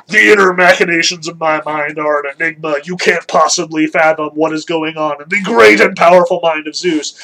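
lightly pompous god voice; a hint of grand proclamation, mocking his self-importance; self-important Zeus. Mock Zeus boasting of his unfathomable mind, mildly pompous. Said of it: "here's Zeus".

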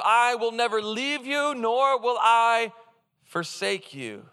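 slow, solemn divine promise; God promising never to leave. Acted. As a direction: stretch the last words out slowly. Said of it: "God answers him".

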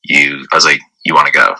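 low, calm, unreacting. Man asks departing date whether she's leaving, very calm. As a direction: ask it evenly, showing no reaction. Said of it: "I was speaking just like this".

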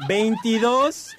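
drawn-out number, said very slowly. Shown as a demonstration. Host starting the second phone line's number, slowly. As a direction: stretch the number out for note-takers. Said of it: "Ahí está despacito".

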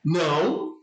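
short, firm scolding "no"; firm correction at normal volume; mock telling-off. Shown as a demonstration. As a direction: demonstrate a mild reprimand to a dog. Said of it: "como se fosse uma bronca".

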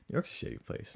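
nearly whispered, confidential aside; hushed aside. Pretend. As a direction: drop to a whisper as if letting a secret slip.

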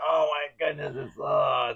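high, whiny nasal mock voice; nasally voice. Shown as a demonstration. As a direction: pitch it up into the nose. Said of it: "sounds like my voice is very nasally".

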